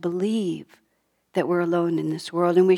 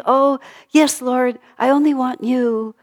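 louder, higher mock-fervent prayer; eager devotee; 5 semitones higher, 7 dB louder than usual. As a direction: voice an earnest pledge to God. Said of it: "pull in this direction and think".

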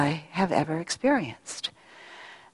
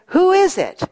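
high, louder startled call of a frightened man; frightened cry; 11 semitones higher, 5 dB louder than usual. Retold or imitated. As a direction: cry out, bewildered and scared. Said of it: "totally frightened".

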